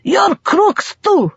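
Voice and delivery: high, loud gleeful exclamation; thrilled laughing accusation; delighted cry. A narrator's reading. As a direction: crow it with delight. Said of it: "he cried delightedly".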